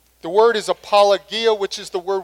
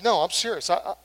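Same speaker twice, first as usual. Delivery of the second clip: sincere apology. Shown as a demonstration. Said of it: "It's to say things like".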